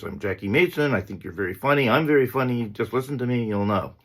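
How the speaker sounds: a hint of a Borscht Belt stand-up's shtick; Jackie Mason impression. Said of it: "he talked a little like this".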